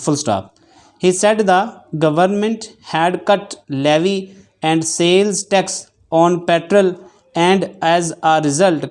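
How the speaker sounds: measured dictation read with spoken punctuation. Shown as a demonstration. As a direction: read each phrase evenly for shorthand students. Reads shorthand dictation aloud. (डिक्टेशन पढ़ने का अंदाज़)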